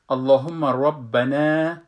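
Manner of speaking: اللهم ربنا slow with a heavy ra; full ra. Shown as a demonstration. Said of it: "ربنا نخوانین".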